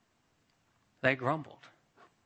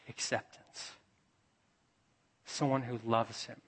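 breathy hush, much softer; whispered; 3 semitones lower, 6 dB quieter than usual. Real, not acted. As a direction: let the word land in a whisper. Climax of sermon point.

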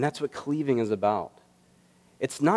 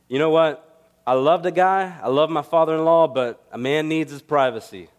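put-on Bronx accent; 3 semitones higher, 5 dB louder than usual. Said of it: "He had a thick accent".

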